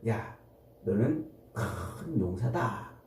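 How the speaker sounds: low, drawn-out voice of God, lightly acted; 하나님의 말씀. 하나님이 기드온을 부르는 말씀. (낮고 느리게 읊는 하나님의 말씀)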